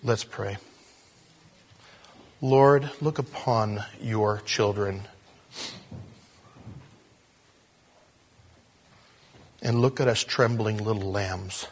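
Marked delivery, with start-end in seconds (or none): 2.4-11.7 slow, earnest prayer with long pauses; pastor's unhurried closing prayer; leading prayer. Real, not acted. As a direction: address the Lord in measured, weighty phrases.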